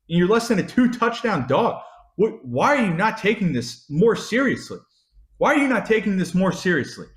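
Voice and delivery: high, incredulous questioning; exasperated berating. Real, not acted. Fan berating an absent coach over a ranked matchup, exasperated. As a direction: demand an answer from the coach, pitch riding up.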